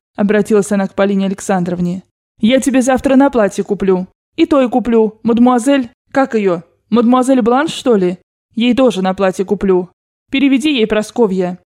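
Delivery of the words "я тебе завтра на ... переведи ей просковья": lightly voiced grandmother. Grandmother ordering servants to give money, lightly voiced. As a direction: hand out orders like a rich old grandmother.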